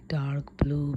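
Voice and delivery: ordinary delivery, nothing marked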